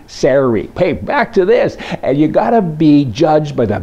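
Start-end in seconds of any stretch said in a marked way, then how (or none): 0.1-0.7 sorry. said SAIR-ee, like scary; sorry. as SAIR-ee, rhyming with scary; American sorry. Shown as a demonstration. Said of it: "Kind of like scary".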